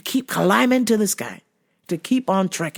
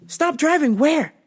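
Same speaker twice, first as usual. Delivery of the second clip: higher, slow disbelieving stop driving where; incredulous question; 6 semitones higher, slower than usual. Retold or imitated. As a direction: push back in disbelief. She pushes back at dad.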